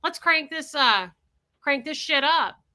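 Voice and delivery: defiant glee. Retold or imitated. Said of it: "I was like".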